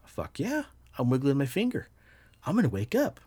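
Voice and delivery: high, hopeful little cheer; retold excitement. Sleeper cheering himself on to wake, high eager thrill. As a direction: lift the pitch in budding triumph. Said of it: "I'm like".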